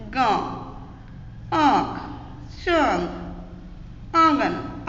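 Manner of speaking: vowel in गांव, आंख, चांद sent through nose and throat; nasalized vowels. Shown as a demonstration. Teacher giving chandrabindu examples, vowels through nose and throat. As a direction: nasalize the long aa of आंख and आंगन, each word separate. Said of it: "नाक और गले दोनों से".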